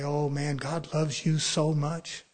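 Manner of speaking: slow, coaxing devil voice; devil's sweet talk. Retold or imitated. Preacher mimics the devil's soothing line, slowly. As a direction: coax like a smooth tempter. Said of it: "that's the way the devil talks".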